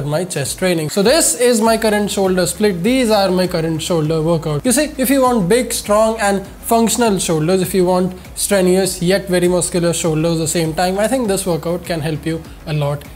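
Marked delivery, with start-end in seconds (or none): 4.7-13.0 stuffy nasal voice from a cold; talking through a blocked nose. Real, not acted. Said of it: "excuse my nasal voice".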